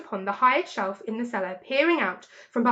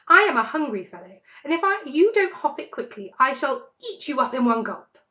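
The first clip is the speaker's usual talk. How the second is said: menacing; 4 semitones higher, 5 dB louder than usual. Acted. Fox threatening Rat.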